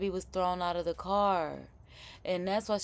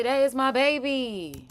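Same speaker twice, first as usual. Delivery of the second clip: mimicking mom; 5 semitones higher, 4 dB louder, slower than usual. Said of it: "Homegirl say".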